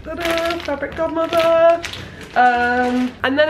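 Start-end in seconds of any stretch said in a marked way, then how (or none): 0.0-1.8 high, bright-eyed reveal. Real, not acted. Showing fabric to viewers, high ta-da reveal. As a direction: present it like a magic trick.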